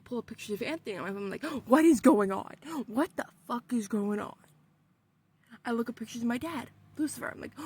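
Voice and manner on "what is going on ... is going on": panicked shout. Retold or imitated. Panic in the dream.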